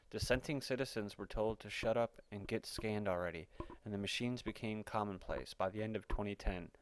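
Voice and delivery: steady, measured reading of a written report; article read-aloud. Acted. Reading a speculative article to listeners, news-story narration.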